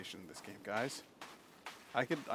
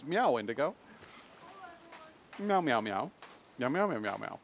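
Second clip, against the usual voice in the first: cat meows; 3 semitones higher than usual. Retold or imitated. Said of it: "She actually says".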